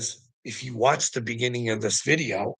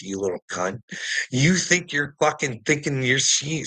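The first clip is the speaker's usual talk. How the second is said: usual speaking voice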